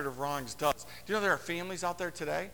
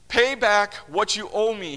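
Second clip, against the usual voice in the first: louder, slower, higher demand; a slow, louder, hard demand for the money; 4 semitones higher, 9 dB louder than usual. A narrator's reading. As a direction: make him pay up now. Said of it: "he demanded".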